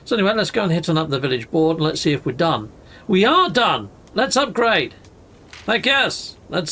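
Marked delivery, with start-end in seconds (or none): 3.1-6.4 excited. Real, not acted. Gamer cheering as the village upgrade is ready, excited. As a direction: celebrate finishing the task.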